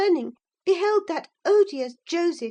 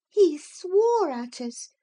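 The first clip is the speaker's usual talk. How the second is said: ordinary delivery, nothing marked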